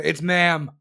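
imitated yell. Customer correcting store staff, imitated yell. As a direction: imitate an indignant customer's outburst. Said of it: "like, yelling at people".

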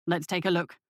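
low guard's voice; second guard. A narrator's reading. Second guard examining the find, low voice.

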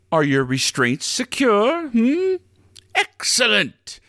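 drawn-out, grand ride launch; slow announcer voice. Acted. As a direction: stretch it out like a showman.

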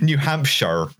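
slow, drawn-out Somerset burr; playful Somerset "New Hampshire"; Somerset accent. Pretend. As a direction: stretch it out in a West Country Somerset accent. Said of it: "like I'm doing a Somerset accent".

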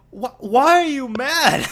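high, loud mock-baffled question; incredulous retort. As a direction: stretch it out in exaggerated disbelief. Acts out reply to angry teammate.

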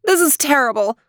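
high, dismayed princess voice; sweet storybook princess in distress; theme park princess. Acted.

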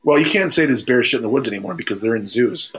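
ordinary delivery

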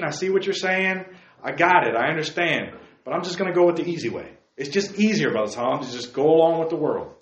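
a hint of a casual teen brushing off the preacher; worldly young man. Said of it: "but you're saying".

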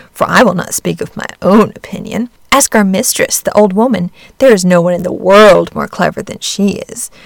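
scornful hen. Acted. Hen lectures duckling.

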